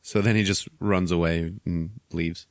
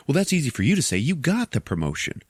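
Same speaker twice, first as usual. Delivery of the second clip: higher-pitched grumbling coworker; mild retold complaint; 6 semitones higher than usual. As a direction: lightly act a passed-over colleague. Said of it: "the human is like".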